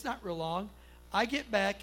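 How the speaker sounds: ordinary talk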